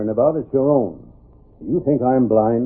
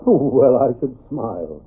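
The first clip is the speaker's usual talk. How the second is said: chuckling; slower than usual. Acted. Sheriff laughs recognizing masked man.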